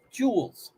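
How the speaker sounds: "Joules" alone, J at the start; British-style pronunciation. Retold or imitated. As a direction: mimic their "Joules" with a falling tone. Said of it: "they say joules".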